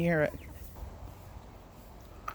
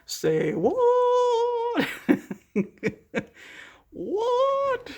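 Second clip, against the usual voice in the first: high, disbelieving squeal; surprised; 14 semitones higher, much slower than usual. Real, not acted. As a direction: shoot up in amazed disbelief. Amazed at jaw staying closed.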